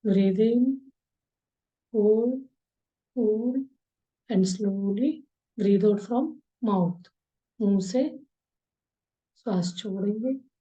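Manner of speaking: slow breathing guide with long pauses; unhurried meditation instructor's voice; guided meditation. Acted. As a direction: draw out the words, leaving space to breathe.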